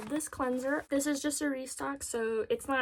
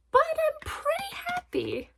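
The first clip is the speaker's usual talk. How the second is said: much higher excited whisper; giddy whisper; 4 dB louder than usual. Real, not acted. Confiding her haul joy to viewers, giddy whisper. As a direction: breathe out the happiness like a secret. Delighted about haul purchase.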